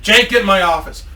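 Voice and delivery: controlled mock-boss command; stern boss. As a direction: order him in firmly, without shouting. Boss orders employee, first take.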